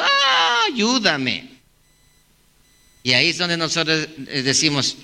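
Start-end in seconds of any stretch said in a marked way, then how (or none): 0.0-1.5 mock crying plea. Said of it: "llegan llorando y diciendo".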